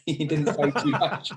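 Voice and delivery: a chuckle carrying the line; laughing. Real, not acted. Amused player recalling Boycott, laughing as he speaks.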